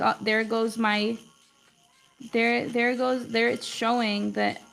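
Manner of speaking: ordinary talk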